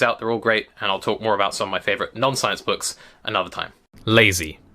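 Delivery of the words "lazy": measured, deliberate reading voice; essay read aloud. Acted. Reading a manifesto to listeners, measured narration.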